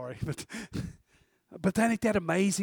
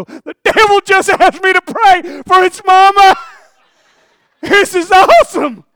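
high, loud, giggling aside; laughing half-whisper to a friend; 12 semitones higher, 15 dB louder than usual. Retold or imitated. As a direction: crack up telling your buddy. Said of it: "I go".

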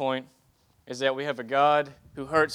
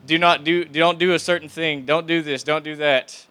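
firm, louder parental scolding; a mild stern-parent voice, louder; parent's warning; 6 dB louder than usual. Retold or imitated. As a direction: warn the kid off like a stern parent.

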